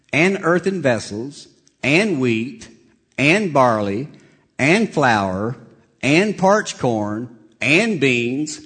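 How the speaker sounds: slow list, each item set apart; measured pulpit reading with pauses; deliberate scripture reading. Real, not acted. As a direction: read the verse item by item, leaning on each "and". Stresses each conjunction reading list.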